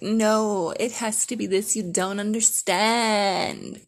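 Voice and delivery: insistent, drawn-out spoiled demand; entitled whine. Retold or imitated. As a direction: play the entitled brat, stretch understand. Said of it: "an entitled bitch moment".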